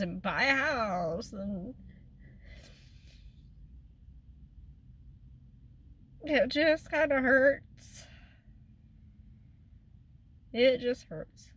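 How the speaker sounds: hurt, slow words through tears; crying. Real, not acted. Telling viewers how the will hurts, tearful. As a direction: let the hurt come through, barely holding it.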